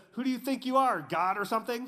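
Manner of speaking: snippy, full of attitude. Speaker retelling the Samaritan woman's retort to Jesus, imitating sassy attitude. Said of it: "she still has a little bit of an attitude".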